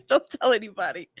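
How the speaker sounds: half-crying laugh. Real, not acted. Laughing confession about drinking.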